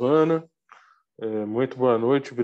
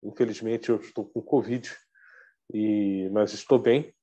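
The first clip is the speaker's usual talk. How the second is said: muffled behind a face mask; through a face mask. Real, not acted. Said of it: "Peço licença para falar de máscara".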